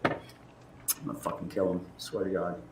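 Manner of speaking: whispered, slow and low, deadly serious; slow seething whisper. Real, not acted. Still raging at him, a slow whispered oath. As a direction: breathe the threat out slowly. Still furious about the man.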